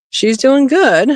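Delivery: high, slow coo to the rabbit; high, slow pet-talk praise. Real, not acted. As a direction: sweet-talk her gently, drawn out. Cooing over nursing rabbit.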